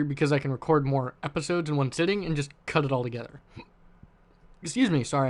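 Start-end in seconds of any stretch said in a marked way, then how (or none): 3.0-3.4 words broken by a hiccup. Real, not acted. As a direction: speak through the hiccups. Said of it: "I'm hiccuping".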